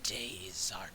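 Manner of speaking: half dragon voice. Acted. Dragon speaks threat.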